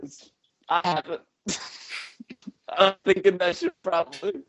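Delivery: lightly voiced stoned jam-band fan; dreamy burnout dude, drifting; stoned hippie.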